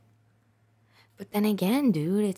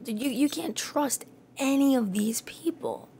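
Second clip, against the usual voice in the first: whisper; 9 semitones higher than usual. Real, not acted. Repeats the line as whisper.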